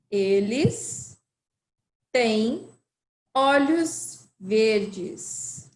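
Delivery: "olhos verdes" dragged out syllable by syllable; very slow model. Shown as a demonstration. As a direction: stretch "olhos verdes" right out. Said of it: "repeat again".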